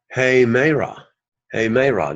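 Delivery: "Hey, Meira" opened with an audible h; rough breathing. Shown as a demonstration. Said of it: "Did you hear the rough sound?".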